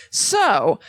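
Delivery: halting, drawn-out delivery; slow down awkwardly on the unfamiliar term; out-of-touch writer. Acted. Host mimicking an out-of-touch writer to co-host, halting and stilted. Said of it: "who's out of touch with".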